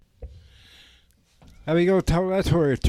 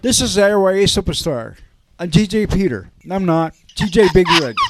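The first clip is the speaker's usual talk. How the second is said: radio host voice; 2 semitones higher, 7 dB louder than usual. Pretend. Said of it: "Say it again, please".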